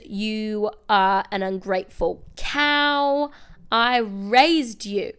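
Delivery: slow, cutting reproach; cold scolding. Retold or imitated. Gothel berating Rapunzel for sneaking out, slow and cutting. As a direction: drag it out, each word a rebuke.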